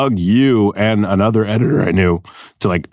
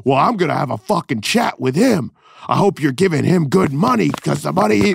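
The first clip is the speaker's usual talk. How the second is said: higher, mock menacing local; Jamaican dude threatening; 10 semitones higher than usual. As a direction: sneer a threat about the money. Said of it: "He'd be like".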